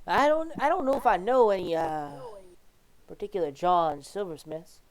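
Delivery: lightly voiced hesitant man behind a door; Reginald. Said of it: "Reginald calls back".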